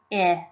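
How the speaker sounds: first syllable said alone; syllable sounded out. Shown as a demonstration. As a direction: say just the opening syllable, set apart. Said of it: "pronounce the first syllable first".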